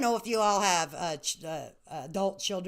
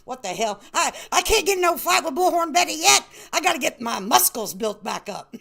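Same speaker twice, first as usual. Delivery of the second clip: mock whining; 4 semitones higher, 5 dB louder than usual. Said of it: "I'm like".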